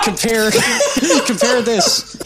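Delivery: words breaking up with laughter; laughing. Real, not acted. Podcaster cracking up over a movie comparison, laughing.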